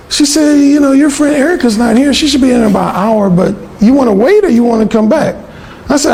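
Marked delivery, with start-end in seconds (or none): 0.6-5.3 mimicking the roommate. Roommate voiced in story.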